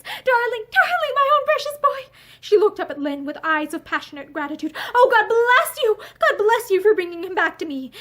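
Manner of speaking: high, loud tearful relief; sobbing. A narrator's reading. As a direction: sob out thanks and love. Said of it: "she sobbed".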